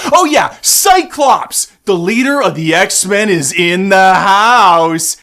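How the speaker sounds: hype intro. Pretend. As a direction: announce him like a club MC. Announcing Cyclops.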